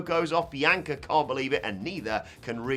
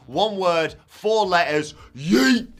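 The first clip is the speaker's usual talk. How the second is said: louder, higher build to a yelled yeet; hyped shout; 5 semitones higher, 8 dB louder, slower than usual. Acted. Hyping the catchphrase payoff.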